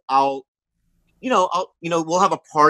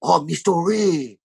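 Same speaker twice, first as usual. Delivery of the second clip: imitating a racist Asian accent; slower than usual. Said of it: "doing an Asian accent".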